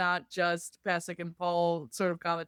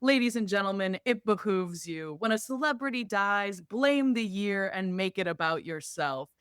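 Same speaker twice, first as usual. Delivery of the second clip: slow, lightly raised aside to audience; conspiratorial aside; 3 semitones higher than usual. Retold or imitated. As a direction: lean in and confide to the crowd. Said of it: "And he does an aside to the audience".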